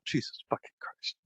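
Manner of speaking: under-breath whispered swearing; whispered curse. Real, not acted. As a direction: hiss it to yourself.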